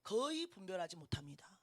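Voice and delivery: breathy whispered aside. Real, not acted. Preacher whispering a warning to the congregation. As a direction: drop to a secret whisper.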